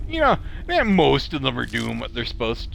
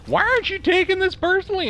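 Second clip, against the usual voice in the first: mock exasperation; 4 dB louder, faster than usual. Mocking frustrated insulters.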